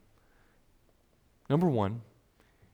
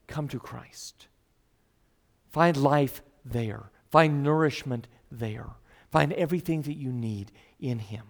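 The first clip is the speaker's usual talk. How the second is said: gentle invitation; 4 semitones lower than usual. Acted. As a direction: draw them in gently. Tender invitation in sermon.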